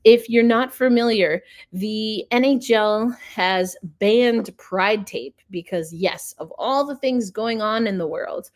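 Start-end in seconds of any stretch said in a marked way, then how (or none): 5.5-8.5 dry sarcasm, played understated; mock-agree as if it were a real crisis; sarcastic. Real, not acted. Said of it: "If you can't hear my sarcasm".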